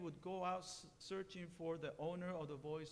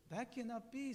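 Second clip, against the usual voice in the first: surprised; 5 semitones higher than usual. Acted. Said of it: "in surprise".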